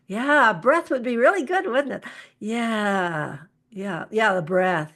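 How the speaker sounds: match a charged client, then bring them down. Shown as a demonstration. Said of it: "I'll be more energetic".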